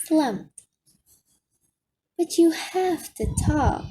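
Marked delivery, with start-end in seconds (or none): 2.2-3.8 faltering voice. A narrator's reading. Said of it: "in a faltering voice".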